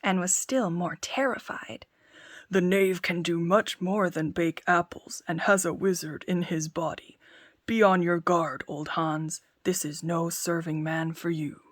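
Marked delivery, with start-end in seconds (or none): 2.5-11.6 giant scares himself about the tailor; uneasy giant. Acted. Giant's fearful musings.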